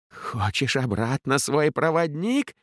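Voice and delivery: high, slowed, cracking shout; voice-cracking yell. A narrator's reading. The punisher taunting Ellin, yelling with a cracking voice. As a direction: yell it with a breaking voice. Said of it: "срывающимся голосом заорал каратель".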